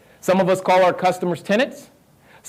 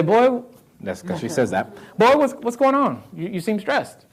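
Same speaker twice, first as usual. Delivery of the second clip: imitating mom; 5 semitones higher than usual. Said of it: "my mom will say".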